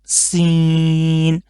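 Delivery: سین with a long hissing whistle on the s; whistled seen. Shown as a demonstration. Teacher demonstrating the whistling sound of سین. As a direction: stretch the s in سین into a clear whistle. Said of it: "سین کی آواز میں سیٹی نکالنا ضروری ہے".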